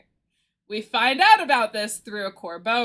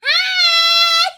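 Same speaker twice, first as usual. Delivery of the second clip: excited squeal; much slower than usual. Real, not acted. Streamer spotting a friend mid-story, overjoyed squealing. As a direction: shriek hello with delight. Greets a raider who just arrived.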